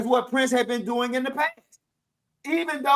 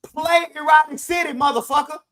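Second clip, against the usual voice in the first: higher-pitched mock heckler's holler; retold yell from the crowd; imitated audience yell; 5 semitones higher, 3 dB louder than usual. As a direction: call out like an angry concertgoer demanding a song. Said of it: "a brother in the audience yelling".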